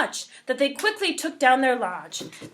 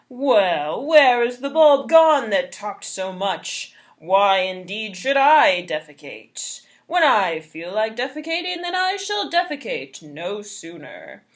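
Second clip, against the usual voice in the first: loud scoffing trickster; boastful trickster; 3 semitones lower, 4 dB louder than usual. Acted. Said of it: "Thus spoke Trickster".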